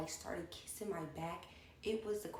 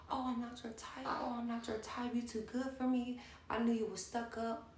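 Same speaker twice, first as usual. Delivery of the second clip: emotional whine; 5 semitones higher than usual. Retold or imitated. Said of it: "she starts getting emotional".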